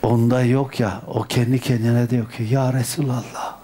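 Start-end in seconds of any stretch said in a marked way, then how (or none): 2.5-3.6 reverent whisper. Retold or imitated. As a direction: breathe the address to the Prophet. Woman addressing the Prophet inwardly. (huşu içinde fısıltı)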